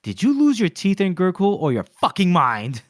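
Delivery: mock angry outburst. Arch Lector scorning Glokta's doubts, mock angry snap. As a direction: bark it at him like a scornful boss. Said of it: "And he's like".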